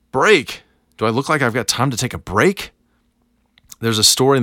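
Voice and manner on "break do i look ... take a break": higher, louder exasperated outburst; a stressed coworker snapping in disbelief; freaking out. Retold or imitated. Stressed coworker at a deadline, incredulous at the idea of a break. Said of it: "the freaking out guy is like".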